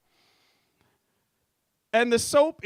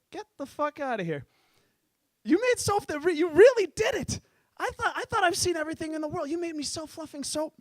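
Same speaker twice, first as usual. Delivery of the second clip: higher, excited disbelief; mock amazement; amazed sheik; 5 semitones higher than usual. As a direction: gush like a dazzled sheik.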